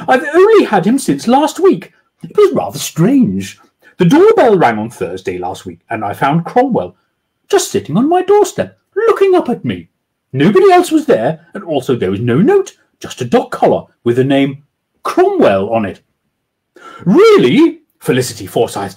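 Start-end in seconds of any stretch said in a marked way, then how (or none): 0.1-16.0 a hint of a lady's voice, higher and louder at times; lightly voiced Jemima; woman's voice. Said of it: "replied Jemima Kingston". 17.1-17.8 high, loud falsetto question; hammed-up posh woman asking; sheepish lady. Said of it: "slowly and somehow sheepishly".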